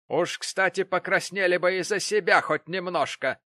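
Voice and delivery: sharp retort. Acted. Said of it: "сказала миссис Гэмп".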